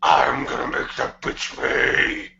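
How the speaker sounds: slow, strained throat-scream whisper as Sonic; gritty Sonic voice. Acted. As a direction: grit teeth and rasp it from the back of the throat. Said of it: "The Sonic voice makes me lightheaded".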